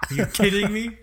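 loud, high, incredulous; excited shout. Real, not acted. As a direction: blurt it out in disbelief. Excited outburst.

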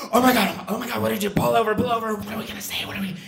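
high, rushed panic between friends; panicked. Retold or imitated. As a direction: blurt it out in a frantic rush. Panicking as cop pulls them.

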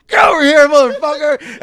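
high, loud aggressive yell; shouted command. Retold or imitated. Corrections officer grabbing a big inmate, aggressive shout. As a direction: bellow it like an officer seizing a prisoner.

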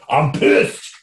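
whispered angry quote; mock whispered rage.

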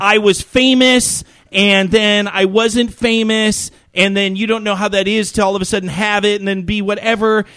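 exaggerated poor-me complaint; mock complaining. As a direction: imitate a celebrity moaning about lost fame. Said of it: "he's, like, bitching".

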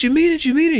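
very high, giddy double question; mimicked eagerness. Randall is offered a place in the group, mimicked giddy squeal. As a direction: squeak it like an overjoyed kid. Retold thrilled reply to invitation.

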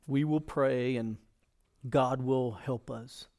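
slow pronouncement. Acted. Voices Moses reassuring the people.

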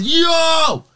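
high, loud drawn-out yell; retold scream. Screaming in the lady's face at the door, retold scream. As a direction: scream it to startle someone. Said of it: "I just screamed in her face".

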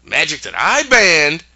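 hammed-up indignant decree; righteous indignation. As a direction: thunder it like an offended ruler. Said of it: "full of righteous indignation".

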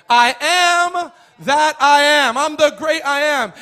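loud, high, drawn-out proclamation; thunderous declaration. Acted. Preacher voicing God's answer to Moses, thunderous declaration. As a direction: proclaim it big, stretching the words. God declaring his name, acted.

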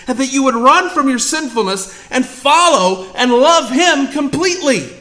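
ordinary delivery

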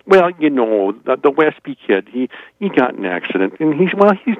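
lightly voiced Minnesota church lady, pitying; gossiping town lady. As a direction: cluck like a small-town gossip. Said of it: "the ladies of the town would come up and they'd say".

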